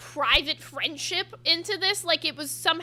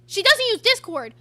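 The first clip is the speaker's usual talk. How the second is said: much louder, higher, outraged disbelief; incredulous louder repeat; 6 semitones higher, 8 dB louder than usual. Real, not acted. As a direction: throw it back loud, can't believe it. Repeating what she was told.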